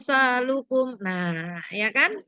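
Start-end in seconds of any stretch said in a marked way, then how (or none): 0.0-1.0 "Amsalukum" slowly, each m clear; measured, clean m sounds in "Amsalukum"; clear reading. Shown as a demonstration. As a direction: recite "Amsalukum" distinctly without humming. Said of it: "dibacanya jelas".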